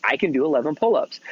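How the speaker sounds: firm, confident declaration; with conviction. Retold or imitated. Dad showing his son how to say it, with conviction. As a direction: say it like you believe it. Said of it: "like, with conviction".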